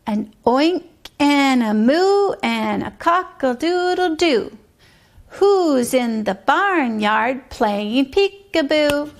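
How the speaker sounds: put-on sing-song rhyme for a child; bouncy nursery rhyme read aloud; rhythmic rhyme reading. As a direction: chant the barnyard poem with a steady beat.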